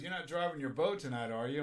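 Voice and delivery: laughing while imitating the cop. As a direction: chuckle through the cop's question. Cop quote in drunk story.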